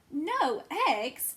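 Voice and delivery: loud, high outraged question; shocked cry. A narrator's reading. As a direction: cry out in disbelief. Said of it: "cried Farmer Brown".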